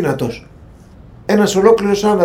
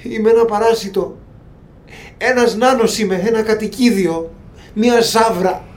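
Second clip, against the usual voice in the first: a slightly higher, wounded little creature voice; self-pitying creature; 4 semitones higher than usual. Acted. Trapped creature lamenting its fate, self-pitying. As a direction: sulk like a pitiful creature.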